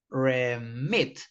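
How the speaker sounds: remit with stress on MIT; remit, stress the last syllable; stress on second syllable. Shown as a demonstration. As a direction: say re-MIT, hitting the final syllable. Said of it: "you don't say remit, you say remit".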